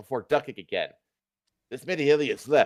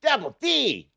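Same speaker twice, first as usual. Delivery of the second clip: high, excited greeting; excited shout; 12 semitones higher, slower than usual. A narrator's reading. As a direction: call it out with delight. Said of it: "Peter shouts excitedly".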